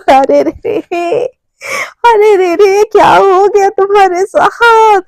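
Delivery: drawn-out teasing mock pity after laughing; laugh, then coo with fake sympathy; mocking laughter. Romi laughing at Mishka's ordeal, mocking. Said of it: "जोर जोर से हंसने लगती है".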